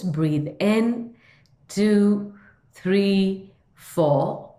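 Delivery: slow, measured breathing-exercise count; guided breathing count. Shown as a demonstration. Teacher leading listeners through sixteen second breath, slow guided count. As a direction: count the breath out evenly, word by word.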